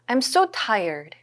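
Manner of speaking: very slow, drawn-out model line; slow model phrase. Shown as a demonstration. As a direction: lay out each word for the class. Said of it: "그럼 우리 어떻게 얘기해요?". (느리게 또박또박)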